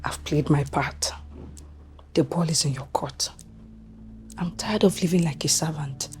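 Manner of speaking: low, very soft undertone; conspiratorial hush. Acted. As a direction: confide it quietly to an accomplice. Plotters confer in secret.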